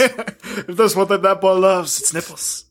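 breathy Scarlet O'Hara voice. Retold or imitated. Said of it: "like, breathy voice".

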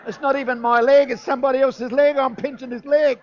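high, loud exclamation; loud comic punchline. Retold or imitated. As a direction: belt out the embarrassing reveal. Punchline of the leg mix-up.

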